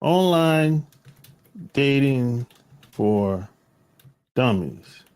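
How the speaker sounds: each word spaced out, slow, like announcing a title; slow title read-out. Shown as a demonstration. Recalling and spelling out title.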